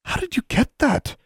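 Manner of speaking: high, tremulous question. A narrator's reading. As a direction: ask it fearfully in a high voice. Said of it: "she asked tremulously".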